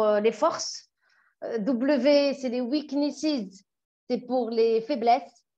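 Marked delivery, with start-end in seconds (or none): 2.6-3.6 weaknesses read slowly in English, each syllable spelled out; careful English word. Shown as a demonstration. A coach unsure of her English reading out an acronym, careful and slow. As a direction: sound out weaknesses carefully as a French speaker. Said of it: "mon anglais est trop nul".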